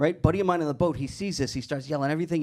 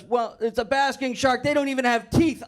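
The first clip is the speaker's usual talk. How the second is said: 1 buddy voice; 9 semitones higher than usual. Retold or imitated.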